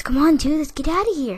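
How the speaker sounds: urgent plea. Retold or imitated. Boy urging a classmate out of detention, pleading high. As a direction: urge him on in a loud, high voice. Same plea acted again, voiced.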